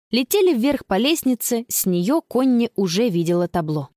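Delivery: ordinary delivery, nothing marked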